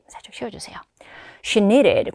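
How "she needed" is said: needed said with its past ending emphasized; stress on past tense. Shown as a demonstration. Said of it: "과거 시제 강조해 주시고요". (needed의 과거형 어미를 강조해서)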